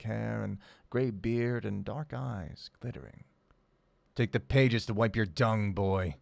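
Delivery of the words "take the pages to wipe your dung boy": a fierce, louder snarl from the cage. Acted. Old prisoner sneering at the boy, fierce and loud. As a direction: spit the insult at the boy. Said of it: "he said, fierce-like".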